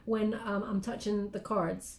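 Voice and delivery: slow, soft, sleepy voice; drowsy, fighting off a yawn. Real, not acted. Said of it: "I'm keep yaw-, yawning".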